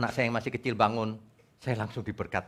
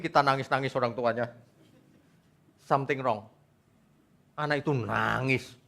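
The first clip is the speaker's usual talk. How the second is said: ordinary talk, nothing marked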